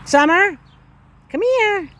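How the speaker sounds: loud high call across the yard. Real, not acted. Owner calling puppy Summer back across the property, loud high call. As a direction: call her name out so she hears you.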